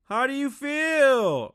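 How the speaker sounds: mock high-pitched shout, vowels stretched; very loud, drawn-out patronizing greeting; really loud and slow. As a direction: imitate talking down to a hard-of-hearing grandma. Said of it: "grandma really loud and slow".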